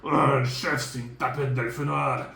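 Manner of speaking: dwarf voice. Acted. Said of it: "pourquoi je parle comme un nain?".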